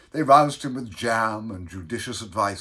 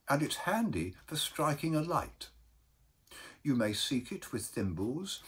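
gentle, softer counsel; mild uncle; 4 semitones higher, 4 dB quieter than usual. Acted. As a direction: advise kindly and mildly, without force. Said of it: "said that mildest of men".

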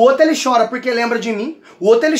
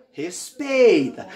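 slow warning; 4 semitones lower, 5 dB quieter, much slower than usual. Retold or imitated. Father warning the mocking guys.

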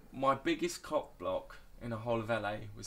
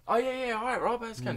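doorman's sudden recognition; 11 semitones higher, 6 dB louder than usual. Retold or imitated.

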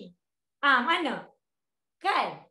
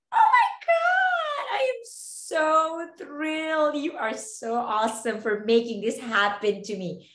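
over-excited gushing; 3 semitones higher, slower than usual. Shown as a demonstration. Mock reply to a principal, gushing and over-excited. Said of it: "You don't reply to your principal like that".

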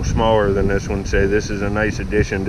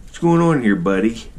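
pet talk. Real, not acted. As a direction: greet the little buddy, pitched way up. Greeting the pet squirrel.

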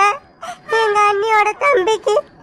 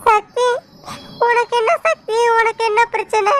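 tearful call; 3 semitones higher than usual. Acted. Sandhya crying to Sakthi.

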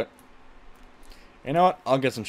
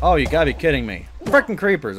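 exasperated; 3 semitones higher, 6 dB louder than usual. Real, not acted. Creeper attacks in game.

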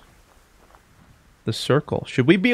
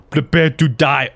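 slow, theatrical villain line; dramatic villain threat; 3 dB louder than usual. Pretend. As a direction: menace them like a movie villain. Threatens enemies in game.

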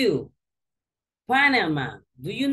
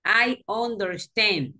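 slow, clear I understand with I stressed; teacher modelling a phrase; model to repeat; slower than usual. Shown as a demonstration. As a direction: say it slowly so she can copy.

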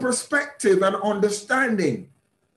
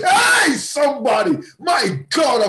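excited outburst; 2 semitones higher, 3 dB louder than usual. Real, not acted. Preacher shouting to the congregation, excited and loud. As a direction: burst out calling to the crowd.

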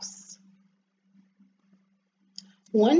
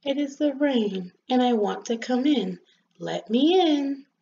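lightly voiced gloomy rain; soft gloomy voice; 3 semitones higher than usual. Rain begs the rosebud to let it in, gloomily. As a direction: plead with a touch of gloom. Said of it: "gloomy voice said".

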